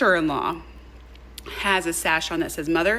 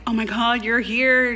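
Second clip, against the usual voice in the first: gushing welcome; 6 semitones higher, 4 dB louder than usual. Retold or imitated. Mother-in-law greeting her warmly.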